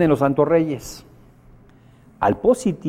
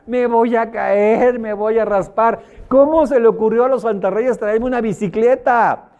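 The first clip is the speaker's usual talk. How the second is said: put-on high, slow whimpering kid voice; whiny scared child; 8 semitones higher than usual. Negative son complains to his father about the bike, high whiny child. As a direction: whine like a frightened little boy.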